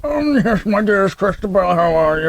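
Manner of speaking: lightly put-on posh English father; a hint of a posh British dad; mock English father. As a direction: play her stuffy father, a touch posh. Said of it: "her father sounded like".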